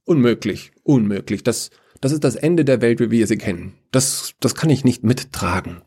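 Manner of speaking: mildly flustered, stammering refusal; agitated objection. Acted. Order refusing Death's proposal, agitated.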